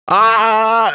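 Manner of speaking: high retold "ah" of alarm; mock panicked cry; startled yell. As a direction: yelp as if about to bolt. Mimes panicked yell before fleeing.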